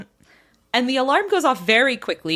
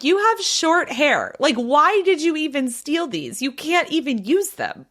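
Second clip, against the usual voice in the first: higher, slow disbelieving jab; incredulous challenge; 5 semitones higher than usual. Retold or imitated. Daughter questions her short-haired mom, incredulous and higher. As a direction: needle her with the obvious.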